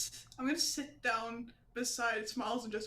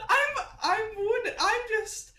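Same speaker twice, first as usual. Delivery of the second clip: frail great grandma; 7 semitones higher, 3 dB louder than usual. Pretend. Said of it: "I'm just a weak old lady".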